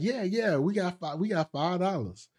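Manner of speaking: high-pitched mock bragging; imitated childish boasting. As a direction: brag like a gullible kid. Boasting child self, retold.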